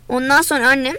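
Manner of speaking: plain reading voice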